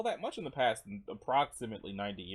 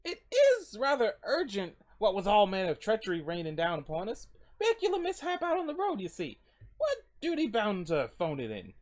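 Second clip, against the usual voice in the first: higher, louder pleading in formal wording; courteous traveler pressing an urgent request; polite late-night visitor; 8 semitones higher, 4 dB louder than usual. Acted.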